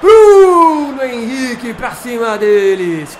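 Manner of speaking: roaring goal call, drawn out; explosive goal commentary. Acted. Goal celebration continues.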